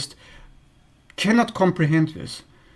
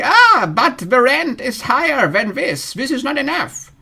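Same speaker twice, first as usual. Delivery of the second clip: mock demanding partner; 8 semitones higher than usual. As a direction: drag it out like haggling over rent. Partner voiced asking higher rent.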